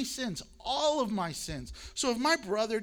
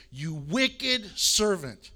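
stern rebuke; 6 dB louder, much slower than usual. Acted. Master rebukes servant in parable.

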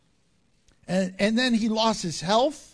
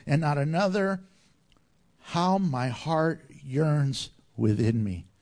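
scripture reading; 3 semitones lower than usual. Acted. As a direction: read the verse with solemn conviction. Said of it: "Job nineteen, verse twenty-five".

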